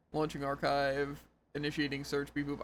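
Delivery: slow robotic system voice; robot booting up. Acted. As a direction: drone each command like a computer. Robot reply.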